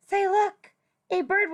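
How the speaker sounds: sudden gasp, then a high, sharp "look"; storybook character spotting something startling; startled gasp. Acted. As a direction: catch your breath in surprise. Reader gasps at bird in ear.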